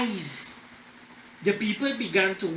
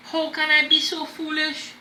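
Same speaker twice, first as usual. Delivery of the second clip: a hint of a higher, pained emperor; ashamed emperor; 8 semitones higher than usual. Emperor to his chief minister, lightly voiced dismay. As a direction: cry out at your own folly.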